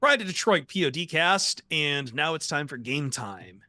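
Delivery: playful sports talk radio intro; sports-radio imaging. Pretend. Podcast host kicks off game time, sports-radio announcer style. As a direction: announce the segment like a radio station promo. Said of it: "It's very sports talk radio-y".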